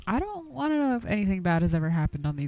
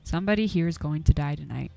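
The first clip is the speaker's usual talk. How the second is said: ominous narration. A narrator's reading. Game master narrating a creeping sense of doom, hushed. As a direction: draw them into dread.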